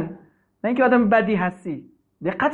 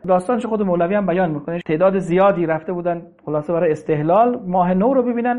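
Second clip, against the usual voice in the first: ordinary delivery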